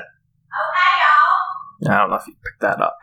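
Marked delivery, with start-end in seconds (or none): 0.0-1.4 high southern redneck holler from across the room; southern redneck accent. Acted. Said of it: "she can do a southern redneck accent".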